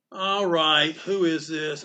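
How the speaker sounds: lightly voiced comic artist answering; retold phone voice. Comic artist picking up a stranger's call, lightly imitated. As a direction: answer the phone in his drawled manner. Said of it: "his voice was great. He was like".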